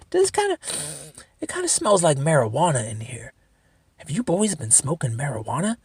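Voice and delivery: lightly voiced hesitant detective; Columbo. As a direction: feign a casual, puzzled afterthought, imitating a TV sleuth. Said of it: "He fucking Columboed our ass".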